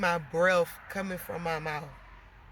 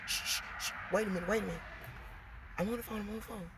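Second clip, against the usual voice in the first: put-on soft hushing of a child, quieter; shushing; 8 dB quieter, much faster than usual. Mom hushing her kid during a phone call, softly. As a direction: hush the kid while on an important call. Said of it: "I'm already telling my kid".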